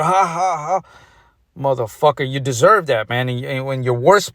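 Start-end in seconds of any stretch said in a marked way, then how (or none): 0.0-0.8 a short, mocking "ha, ha, ha"; mock the sinners with a staged laugh. Preacher mocks sinners with a put-on laugh, staged laughter. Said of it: "down to the soul laughter".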